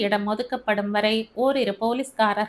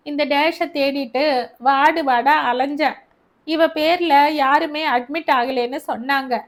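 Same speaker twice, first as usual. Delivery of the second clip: higher, louder complaining tale; agitated old mother; 4 semitones higher, 3 dB louder than usual. Acted. Mother telling Albert her complaint, higher and agitated. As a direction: rattle off her grievance.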